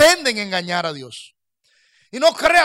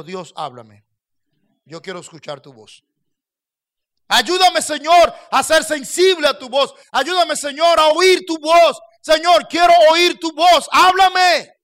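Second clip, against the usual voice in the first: fervent prayer; 5 semitones higher, 5 dB louder than usual. Acted. Pastor on his knees begs God to speak, rising fervor.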